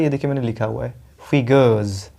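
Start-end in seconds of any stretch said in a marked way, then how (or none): 1.3-2.1 फिगर्स said slowly as FI-guhz; careful correct pronunciation. Shown as a demonstration. Teacher models the word for students, फिगर्स as FI-guhz with buzzing z. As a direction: stress the first syllable of फिगर्स, z ending. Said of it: "इसका correct उच्चारण होता है".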